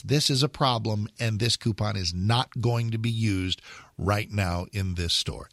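firm but kind refusal; calm and resolute. Pretend. Store manager turning down a customer, calm but firm. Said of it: "very calmly and with all resolve".

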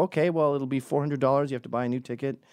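mock gate agent.

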